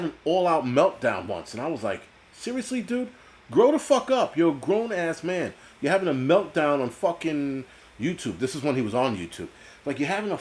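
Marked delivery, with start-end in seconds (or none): 2.3-8.4 incredulous scolding. Retold or imitated. Scolding Alex Jones' meltdown.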